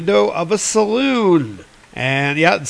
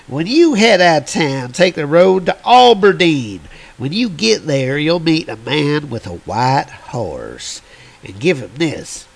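put-on old prospector. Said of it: "old prospector character".

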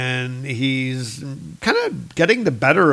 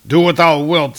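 defiant shout; 4 semitones higher, 8 dB louder than usual. Acted. Thor defiant.

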